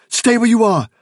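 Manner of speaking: loud, high, urgent order; frightened but forceful command; panting command. A narrator's reading. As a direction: order it breathlessly, under strain. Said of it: "he said, panting".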